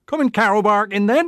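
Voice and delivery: calling out the gang. Retold or imitated. Boys calling the gang out to carol, fast call. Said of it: "It was declaration, not a question".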